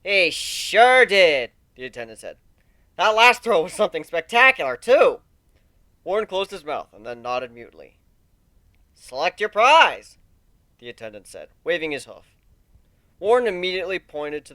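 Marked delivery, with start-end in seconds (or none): 0.0-1.5 attendant voice. A narrator's reading. 3.0-5.2 attendant voice. A narrator's reading. 8.9-10.2 attendant voice. A narrator's reading.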